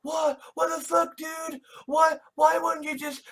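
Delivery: high-pitched acted indignation; upset and offended. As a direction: imitate someone protesting in offended disbelief. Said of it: "who are genuinely upset and offended".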